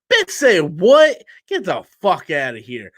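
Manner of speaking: incredulous. Real, not acted. Incredulous reaction to BVS claim.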